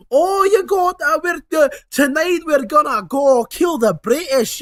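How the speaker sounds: loud, high Scottish brogue for Groundskeeper Willie; Scottish accent. Retold or imitated. Playing Groundskeeper Willie for viewers, in a loud hammed-up Scottish accent. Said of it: "I can't do the accent anymore".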